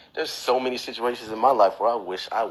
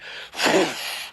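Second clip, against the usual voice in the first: whoosh effect; 5 semitones higher, 5 dB quieter than usual. Acted. Imitates magic fire bursting out.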